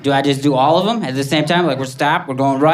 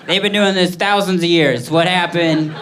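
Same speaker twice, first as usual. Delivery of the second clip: mock panic; 4 semitones higher than usual. Comic at the McDonald's window, in hammed-up mock panic. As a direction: fret like the order broke everything. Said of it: "And then I started to panic".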